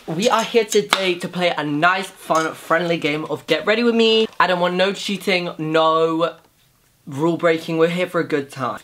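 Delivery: mock game show host intro; playful mock host opening the game. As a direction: announce it like a cheesy quiz host. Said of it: "I really don't know why I'm speaking like this".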